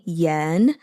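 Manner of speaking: yen with a rising second tone. Shown as a demonstration. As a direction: say yen rising, Mandarin style. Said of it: "So second tone".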